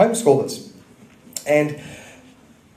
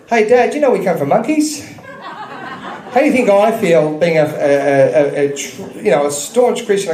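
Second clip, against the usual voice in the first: son's voice; 4 semitones higher than usual. Retold or imitated. Son quoted, laughing while telling.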